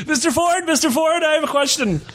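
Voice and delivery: very high, hollow ghostly voice. Pretend. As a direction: float every word up high like a ghost. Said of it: "why do I sound like a ghost?".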